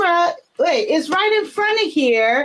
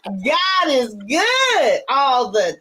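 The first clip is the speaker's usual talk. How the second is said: preaching praise; slower than usual. Real, not acted. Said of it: "Don't tell me God ain't good".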